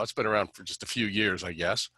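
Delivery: dry sarcastic understatement. Real, not acted. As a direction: say it deadpan, not meaning it. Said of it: "as we say sarcastically".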